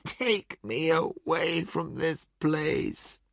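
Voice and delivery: broken voice. Acted. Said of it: "in a broken voice".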